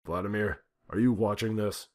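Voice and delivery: loud, high demand down the phone; angry phone call. A narrator's reading. President calling the Russian president, loud and demanding. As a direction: confront him on the red phone. President calls Putin angrily.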